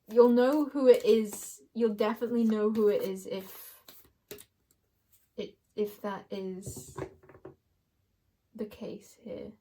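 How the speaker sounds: slow, weighty delivery; drawn-out, meaningful pacing. Real, not acted. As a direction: let the words slow and land. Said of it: "Why did I slow down at that part?".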